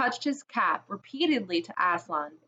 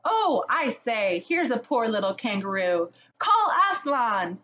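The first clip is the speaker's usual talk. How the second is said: excited; 3 semitones higher, 3 dB louder than usual. Acted. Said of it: "everyone's voices crying out at once".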